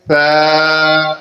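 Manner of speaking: ثا as th, not s; tongue between teeth. Shown as a demonstration. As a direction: show the th of ثا clearly. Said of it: "زبان کو دانتوں سے تھوڑا سا باہر نکال کر".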